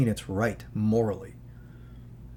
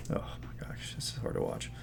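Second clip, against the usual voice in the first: much softer shocked whisper; real whisper; 12 dB quieter than usual. Real, not acted. Watching the wounded animal on screen, shocked real whisper. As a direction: breathe it out, stunned by what you see. Reacting to a disturbing video.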